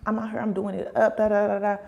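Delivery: mock flex, rattling off the brag. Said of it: "it's always like the flex".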